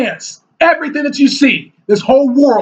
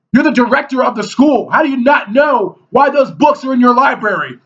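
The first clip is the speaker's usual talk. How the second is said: retold shouting. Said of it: "He said".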